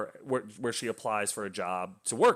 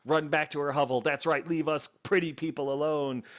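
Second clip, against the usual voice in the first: imagined townsfolk taunting her, slightly raised pitch; lightly put-on sneer at an outcast; mocking jeer; 4 semitones higher than usual. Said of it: "them mocking her, like, laughing at her".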